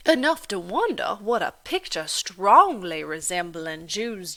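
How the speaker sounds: slow, loud, sneering Irish landlady; scornful Irish landlady. Acted. Landlady taunting Delphine in her kitchen, sneering and loud. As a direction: drag out each word with contempt.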